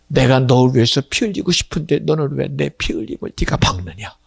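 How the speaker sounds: usual speaking voice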